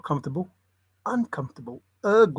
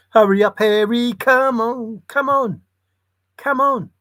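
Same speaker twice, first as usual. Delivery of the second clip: higher, louder urging of Harry; urging call; 6 semitones higher, 5 dB louder than usual. Pretend. Vlogger urging Harry on in a high, louder voice. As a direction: hurry him along in a high pushy voice.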